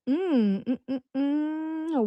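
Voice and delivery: slow, hushed thinking hums; mock listening pause. Imitating a friend who pauses to listen, with slow soft hums. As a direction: hum slowly and quietly like someone waiting for an answer. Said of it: "She pauses like she's listening".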